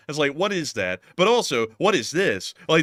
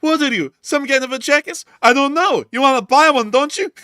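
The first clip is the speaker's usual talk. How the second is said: high, loud hammed-up squabble; hammed-up high shouting; shrill mock argument; 12 semitones higher, 8 dB louder than usual. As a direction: yell it like a cartoon haggler. Acted quarrel over donkeys.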